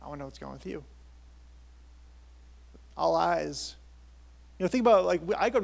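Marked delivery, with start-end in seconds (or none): 0.0-0.8 softer, understated dad imitation; dad's reply. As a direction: answer quietly, as a doting father. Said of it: "his thing was like".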